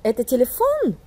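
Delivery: "téléphone" monté brusquement sur la dernière syllabe; intonation interrogative russe. Shown as a demonstration. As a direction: raise "téléphone" sharply on its stressed last syllable. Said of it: "Écoutez encore une fois". (question russe, montée brusque sur « téléphone »)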